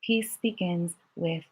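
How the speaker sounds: slow hushed whisper of the mantra. Shown as a demonstration. Teacher has the class whisper the mantra softly. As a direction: breathe the words out in a whisper. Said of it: "And now with a whisper".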